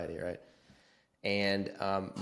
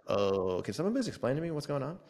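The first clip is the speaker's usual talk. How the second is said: higher, fast bewildered plea; confused pleading; 5 semitones higher than usual. Retold or imitated. Young patient begging the nurse to explain, higher and fast. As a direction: rush it out, lost and pleading. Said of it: "And I was like".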